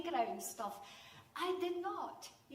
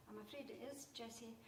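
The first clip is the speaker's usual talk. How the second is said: quiet, gentle teacher; 10 dB quieter, faster than usual. Retold or imitated. Teacher gently breaks the news.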